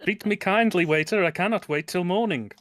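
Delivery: mock phrasebook tourist. Quoting comic phrasebook lines.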